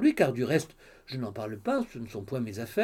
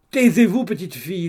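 sharp, louder and higher hush; scolding mother; 4 semitones higher, 7 dB louder than usual. Acted. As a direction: silence the cheeky daughter. Mother silences her daughter. (la mère fait taire sa fille, plus fort et plus aigu)

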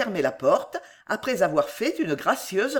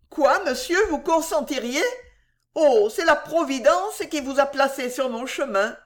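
put-on higher, grateful young servant; lightly voiced young maid; 6 semitones higher than usual. A narrator's reading.

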